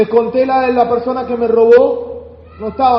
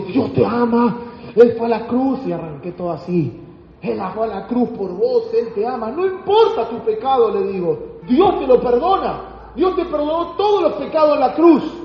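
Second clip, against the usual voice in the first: churchy Christian spiel; 3 semitones higher than usual. Retold or imitated. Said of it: "arranco con la cristianota".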